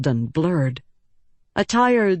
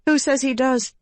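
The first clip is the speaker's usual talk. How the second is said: toothless retort; 8 semitones higher than usual. A narrator's reading. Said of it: "the words had no bite".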